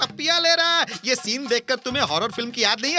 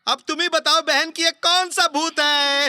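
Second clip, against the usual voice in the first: frustrated shout; 3 semitones higher than usual. Acted.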